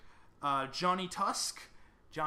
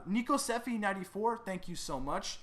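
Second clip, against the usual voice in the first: normal talking voice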